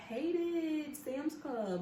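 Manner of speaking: hated Sam's Club stretched very slow and high; drawn out hate. Real, not acted. Telling viewers about the job, slow emphatic stress. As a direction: lean hard into hated.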